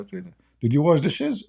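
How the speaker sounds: slow, high nagging question; wife interrogating. Retold or imitated. Wife checking on husband's chores, slow and high. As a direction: quiz him like a suspicious wife.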